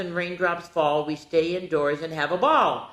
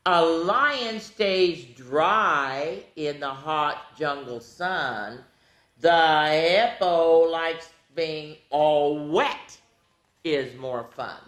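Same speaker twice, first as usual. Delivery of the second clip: slow, sing-song read-aloud; slow storybook reading; slower than usual. Acted. Teacher reading opposites book to kids, slow read-aloud. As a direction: read slowly to small children.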